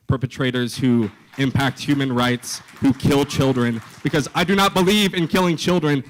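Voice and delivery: real rising indignation, hitting each phrase hard; impassioned condemnation. Real, not acted. Impassioned stance in campus debate.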